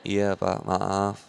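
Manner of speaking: soft, meek and submissive apology. Retold or imitated. Wife meekly apologizing to her angry husband, soft and submissive. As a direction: give in gently to an angry husband.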